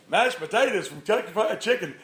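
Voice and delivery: clueless bystander. Retold or imitated. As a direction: echo it as an oblivious onlooker.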